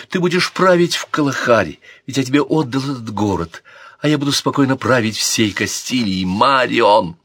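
a lightly voiced brother calling his sister; brother's plea. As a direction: call to her with a hint of menace and urgency. Brother Sancho's voice opening.

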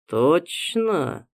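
drawn out, doubting; doubtful drawl. Acted. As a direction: stretch it out with doubt. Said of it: "с сомнением протянул я".

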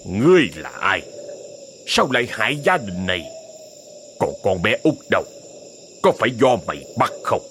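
low, stern interrogation; growled demand. Acted. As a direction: press the demon hard, teeth set. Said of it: "gằn giọng hỏi".

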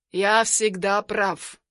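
smug. Acted. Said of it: "самодовольно поддерживает".

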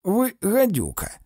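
high, slow, indignant insult; indignant name-calling; acted insult. A narrator's reading. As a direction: draw the insult out, pitched well up. Insulting the hostile woman.

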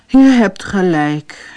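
slow, resigned sigh. Acted. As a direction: give in with a weary sigh. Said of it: "zuchtte meneer Dikmans".

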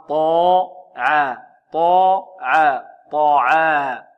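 "طاعا" very slow, dark emphatic T then thin 'aa'; heavy Ta, light Ayn. Shown as a demonstration. Teacher drilling the heavy Ta before Ayn, syllables held. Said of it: "الطاء مفخمة".

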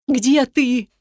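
mother calls to her daughter, voice high with fear; trembling with fear. A narrator's reading. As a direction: call out in panic for her daughter. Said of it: "дрожащий от страха и волнения".

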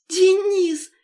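very high, loud shout of his name; crying out. A narrator's reading. Lera shouting to her fiancé, tearful and loud. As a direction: cry it out through tears of joy. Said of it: "крикнула она".

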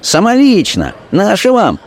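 high cheeky greeting; a tavern girl mockingly greeting; Masha mock greeting. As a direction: greet him high and saucy.

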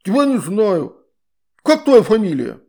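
high, loud outraged water-spirit voice; indignant shout. A narrator's reading. Water spirit indignant about Astrid's mother, high and loud. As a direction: cry out in scandalized outrage.

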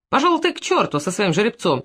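ordinary delivery, nothing marked

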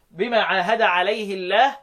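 عليه الله as alayhi-llah; kasra on the ha. Shown as a demonstration. Teacher showing majority reading, kasra on عليه. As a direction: recite عليه slowly with hi, light l in الله. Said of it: "دي لكل القراء ما عدا مين؟".

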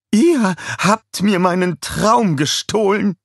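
slow, high, loud accusation; raging. A narrator's reading. Scarlett robbed of her dream, raging. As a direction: rage with every word drawn out. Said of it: "tobte Scarlett weiter".

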